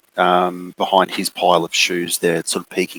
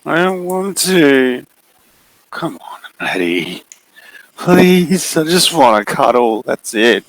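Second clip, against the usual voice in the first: creepy figure; 8 semitones higher than usual. Acted. The figure coaxing Maddie into a cuddle, creepy and high. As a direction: lure her closer, sweetly sinister.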